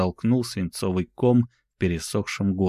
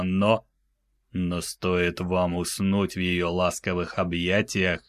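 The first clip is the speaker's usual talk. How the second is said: мёртвый ледяной голос. Acted. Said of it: "мёртвым, криогенным голосом".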